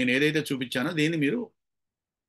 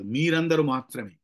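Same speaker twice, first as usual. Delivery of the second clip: slow, deliberate weight on మీరందరూ; single out మీరందరూ slowly; stress on మీరందరూ. Shown as a demonstration. Teacher saying only you all must come, stressing మీరందరూ. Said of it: "ఒక్కొక్క దాని మీద మనం ఎంఫసిస్ పెడతాం".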